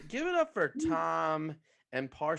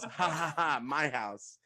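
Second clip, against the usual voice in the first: imitating Ralph's laugh. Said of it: "he just goes".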